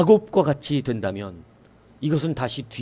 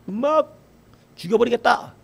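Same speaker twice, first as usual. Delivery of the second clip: higher, hammed-up threat to kill; retold threat; 7 semitones higher than usual. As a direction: act out the tribe snarling a threat. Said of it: "이렇게 얘기하는 거예요". (높고 과장된 위협조)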